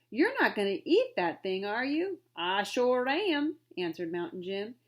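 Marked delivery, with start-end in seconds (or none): 0.1-2.2 louder, aghast cry; gasped. Acted. Trader aghast at eating the shark, louder cry. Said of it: "Mister Azira Jones gasped". 2.4-3.6 slow, put-on backwoods voice; rough sailor. Mountain Jim answering the trader, slow backwoods voice. Mountain Jim's gruff reply.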